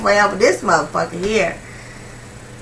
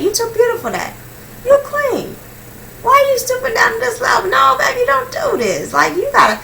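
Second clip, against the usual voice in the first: pleading dad; 4 semitones higher than usual. Retold or imitated. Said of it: "He was like".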